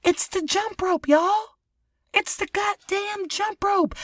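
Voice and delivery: high and loud, slowing down on the last line; excited realization. Real, not acted. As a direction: drag it out with thrilled disbelief. Excited jump rope discovery.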